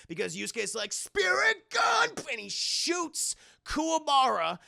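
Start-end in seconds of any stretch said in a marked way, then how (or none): 0.9-2.1 high, stretched-out shouted move name; slow, high battle shout; attack call. Acted. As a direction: cry it like an anime finishing move. Hero calls out his attack.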